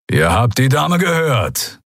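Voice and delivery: slow, snarled warning. Acted. Keru backs up the captain to the pirates, snarling. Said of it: "knurrte Keru".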